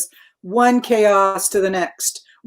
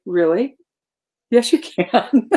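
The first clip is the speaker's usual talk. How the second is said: encouraging. Retold or imitated. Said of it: "look at and say".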